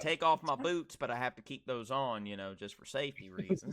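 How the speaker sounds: lightly put-on Southern politeness; mild good old boy Southern accent. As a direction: explain courteously with a Southern lilt. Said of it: "when you do your Southern accent".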